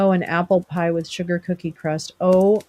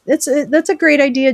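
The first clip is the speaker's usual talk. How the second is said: mock enthusiasm; 7 semitones higher, 7 dB louder than usual. Mock praise to viewer Jim.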